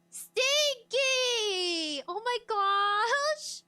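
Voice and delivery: high, loud squeal through laughter; laughing squeal. Real, not acted. Reacting to a chat comment about stinky kids, laughing squeal. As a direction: squeal it while cracking up.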